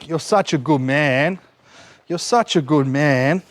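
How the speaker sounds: slow, drawn-out praise; praising the dog. Real, not acted. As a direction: draw out the praise for your dog. Praising the dog while training.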